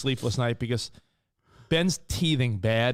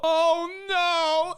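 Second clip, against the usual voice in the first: imitating daughter. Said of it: "I hear Emmy go".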